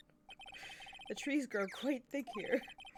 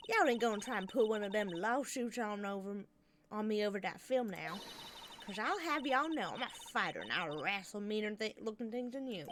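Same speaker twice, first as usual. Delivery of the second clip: put-on southern accent. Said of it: "southern accent".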